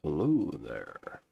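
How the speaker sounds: slow, lightly voiced Nord greeting; drawn-out hello like a sturdy Nord; a touch of Nord, slowed down. Shown as a demonstration. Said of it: "That's my Nord voice".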